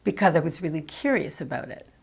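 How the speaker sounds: "because" given a little extra weight; lightly emphasize the opening "because"; stress on BECAUSE. Shown as a demonstration. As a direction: lean on "because" to introduce the reason. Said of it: "she also stresses the word because".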